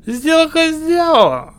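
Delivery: put-on high, loud drunken slur. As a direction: slur it out tipsy. Drunk hero shouts.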